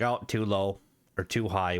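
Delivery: blocked nose from hay fever; stuffy, nasal hay fever voice. Real, not acted. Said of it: "I apologize for my very nasally voice".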